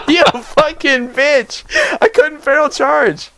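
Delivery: high, slow, drawn-out angry yelling; furious yelling. Real, not acted. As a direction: rage at the loss. Raging after death.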